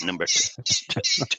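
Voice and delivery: bingo caller. Retold or imitated. Retelling calling bingo at club.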